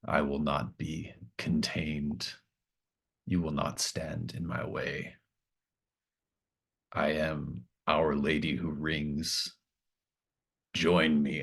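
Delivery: slow, deliberate divine pronouncement; a lightly voiced deity speaking slowly over camp speakers; distorted god voice. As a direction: intone each word slowly like a god taking over the speakers. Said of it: "distorted, um, there's some feedback, like, it shrieks, and then it kind of finds the right register and just says".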